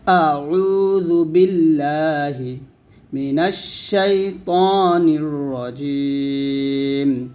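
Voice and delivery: আউযু with the opening ain pressed; slow recitation, ain of আউযু firmly pressed; stressed ain. Shown as a demonstration. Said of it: "আইন উচ্চারণটা একটু চাপ দিয়ে বলতে হবে".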